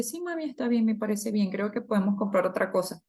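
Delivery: lightly voiced little girl, sweet and agreeable; a hint of a small daughter answering her mom; daughter's voice. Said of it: "Me dice".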